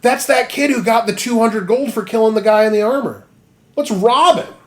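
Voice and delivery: whisper-plot like a cartoon crook; mock scheming robber.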